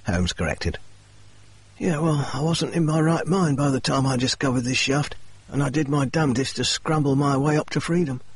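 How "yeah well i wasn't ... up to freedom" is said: a hint of Murray's higher voice; lightly voiced Murray telling his fall; lightly voiced injured man. Murray telling Holmes and Watson of his climb, lightly higher voice.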